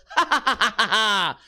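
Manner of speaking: mock a whole table cracking up; imitated group laughter. Streamer imagining diners laughing at Japanese jokes, mock group laugh. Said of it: "everyone goes".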